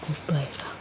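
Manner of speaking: whispered aside, barely voiced. Real, not acted. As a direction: hush it as if not to disturb anyone. Quiet aside while foraging.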